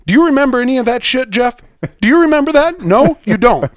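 really furious, firing questions at Jeff; angry rant. Real, not acted.

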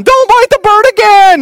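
high, loud, slow yell at the dog; retold yell. Wife yelling at the puppy Noble, high mock shriek. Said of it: "Shannon's yelling".

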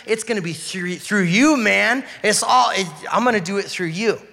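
loud, high, eager pitch; excited God. Pretend. God tempting Moses with a new plan, loud and eager. Voicing God's offer to Moses.

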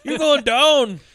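put-on high, loud Canadian kid threat; menacing little boy. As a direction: taunt like a pickaxe-wielding child.

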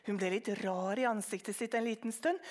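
plain reading voice

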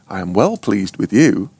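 "well" lifted above the other words; stress on "well". Shown as a demonstration. Preacher puzzles over an unusual phrase, stress on "well". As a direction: lean on the word "well". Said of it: "putting some emphasis on that word".

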